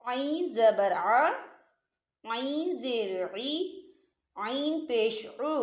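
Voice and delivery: slow, drawn-out drill of the letter Ain with each vowel; slow tajweed drill. Shown as a demonstration. Teacher drilling students on Ain vowels, slow and careful. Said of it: "मैं आपको मिसाल से समझाती हूँ".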